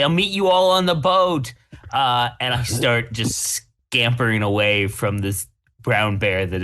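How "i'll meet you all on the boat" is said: fleeing player calls to the party while running; shouted call. Acted. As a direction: shout it back as you flee. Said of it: "I shout out and say".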